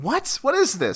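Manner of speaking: high, squeaky what; mock disbelief. Viewer stunned at the movie scene. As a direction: gasp it out in amused shock. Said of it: "'Cause I'm like".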